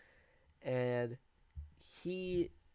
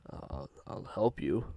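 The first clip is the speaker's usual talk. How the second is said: wolf promising to be a puppy; creepy pleading monster; 6 semitones lower than usual. Retold or imitated. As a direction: beg him to come down with fake kindness. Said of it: "He'd be like".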